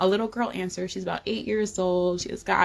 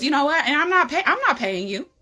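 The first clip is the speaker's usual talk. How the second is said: angry yelling; 6 semitones higher, 4 dB louder, faster than usual. Retold or imitated. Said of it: "like, yelling".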